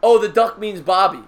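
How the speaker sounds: usual speaking voice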